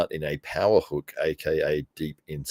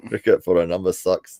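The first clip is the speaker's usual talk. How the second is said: mock New Zealand vowels, louder; Kiwi accent; 5 dB louder than usual. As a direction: repeat it in a put-on Kiwi accent. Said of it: "is the New Zealand accent there".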